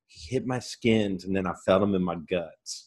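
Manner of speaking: lightly voiced backwoods country accent. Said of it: "why do you do a country accent".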